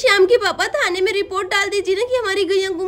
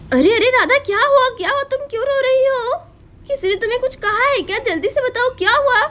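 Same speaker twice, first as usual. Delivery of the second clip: anxious concern; 5 semitones higher than usual. Acted. Chanda finds Radha crying.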